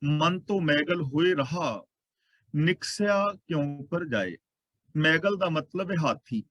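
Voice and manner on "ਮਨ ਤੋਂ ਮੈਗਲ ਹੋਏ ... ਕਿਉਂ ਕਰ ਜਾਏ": slow, measured chanting of the verse; slow scripture recitation. Acted. Preacher reciting a verse to the congregation, slow and measured. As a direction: lay out each word of the holy line, unhurried. Kabir ਜੀ ਕਹਿੰਦੇ ਨੇ.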